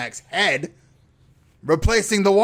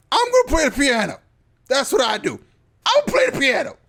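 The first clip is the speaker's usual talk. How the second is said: lightly mocking Melody; 8 semitones higher, much faster than usual. Voicing Melody in recap.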